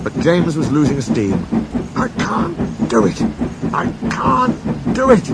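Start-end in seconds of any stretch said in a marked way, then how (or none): 2.0-5.3 high, slow, failing effort; panting. A narrator's reading. James losing steam on the hill, panting desperately. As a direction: draw it out as if spent, rising on the repeat. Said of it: "he panted".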